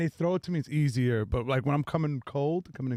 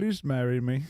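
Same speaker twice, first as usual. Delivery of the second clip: put-on pleading Indian accent proposal. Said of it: "Indian gas station wedding proposals".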